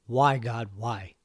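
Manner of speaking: mild mock of a desperate outcry to God; retold scream. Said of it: "screaming out".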